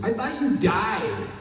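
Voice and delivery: slow, high mock blunt line; deadpan tactless jab; blunt casting director. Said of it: "no filter".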